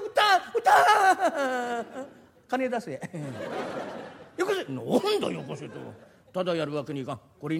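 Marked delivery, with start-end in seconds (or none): 0.0-2.1 drawn-out, loud shout of sold; the merchant grabs the deal at once; eager cry of sold. Acted. Merchant closing the sale eagerly. (勢いよく「売った！」と叫ぶ)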